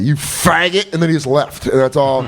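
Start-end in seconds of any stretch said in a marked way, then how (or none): 0.0-0.9 mock Southern jeer, a little higher; Southern accent. Boss insulting the reader, mock Southern accent. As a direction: imitate a scornful Southern boss. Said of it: "they have, like, Southern accent".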